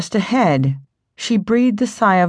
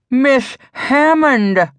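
slow, higher startled call of a name; surprised cry; 5 semitones higher, much slower than usual. A narrator's reading. Matron sees the frozen girl stumble in, slow surprised cry. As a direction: cry out her name in relief. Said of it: "cried Missus Dobbins".

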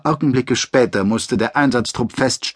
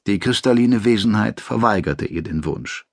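ordinary delivery, nothing marked

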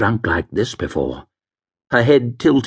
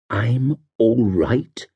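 doubtful echo; much slower than usual. Acted. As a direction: repeat it back, dazed and unsure. She echoes him in doubt.

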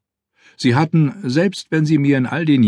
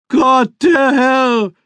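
booming, slow, much higher preacher cry; thundering; 14 semitones higher, 4 dB louder, much slower than usual. Acted. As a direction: thunder it from the pulpit, slowly. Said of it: "donnerte der Mönch".

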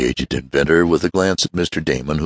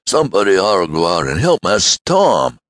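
raised, urgent shout for help; urgent cry; 5 semitones higher, 3 dB louder than usual. Acted. Servant urging the men to help Tom, urgent shout. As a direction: call the men to action. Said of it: "he cried".

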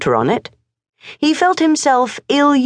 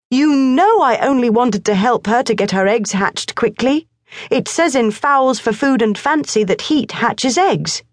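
put-on high, earnest boyish voice; a determined boy justifying himself; boy Morris explaining; 7 semitones higher than usual. A narrator's reading. Morris explains the hen to his father, high and earnest.

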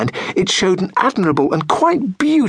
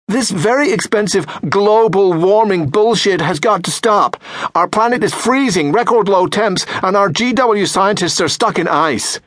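mock Trump tweet; 5 semitones higher than usual. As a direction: send up Trump's words with a pompous read.

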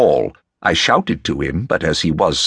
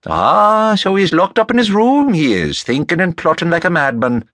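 amused Rafferty; 11 semitones higher than usual. A narrator's reading. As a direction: crow it with amused relish. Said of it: "said Rafferty with a smile".

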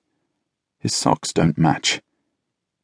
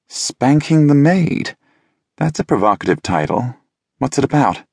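Kurt's voice; 7 semitones higher than usual. A narrator's reading. Kurt reading Scott's book title aloud, high and amused.

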